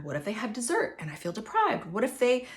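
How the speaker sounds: quick, tense what-ifs spiralling; anxious voice. Shown as a demonstration. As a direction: sound worried and rushed. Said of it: "Do you even feel the anxiety in my voice".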